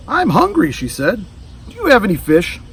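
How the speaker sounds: high alligator voice asking for food; high-pitched hungry alligator. Acted. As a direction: creature voice, high and eager.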